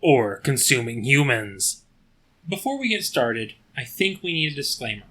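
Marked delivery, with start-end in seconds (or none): 0.0-1.8 lowered mock-serious voice; low put-on voice. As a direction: read the warning in a low put-on voice. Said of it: "keep this voice".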